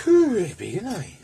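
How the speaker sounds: high, loud amazed exclamation; impressed surprise. Real, not acted. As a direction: gasp at how big they are. Impressed by the size of the spanners.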